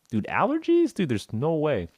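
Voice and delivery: high, disbelieving "allergies?"; a patient who can't believe it's just allergies; incredulous. Retold or imitated. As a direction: scoff at it in disbelief. Disbelief at diagnosis.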